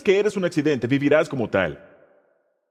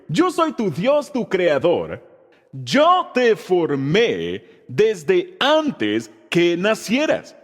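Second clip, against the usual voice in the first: slow recitation; much slower than usual. Shown as a demonstration. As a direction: draw the verse out word by word for all to join. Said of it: "Vamos a decirlo".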